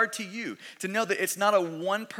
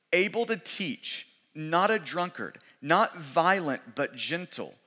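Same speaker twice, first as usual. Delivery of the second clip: slow, measured list from the pulpit; scripture reading; slower than usual. Real, not acted. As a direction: give each item its own deliberate beat. Reads a scripture list aloud.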